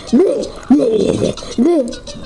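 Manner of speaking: playful "bleh" lapping noises; pretend slurping. Player pretending to drink from the toilet, silly lapping noises. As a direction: make silly drinking sounds.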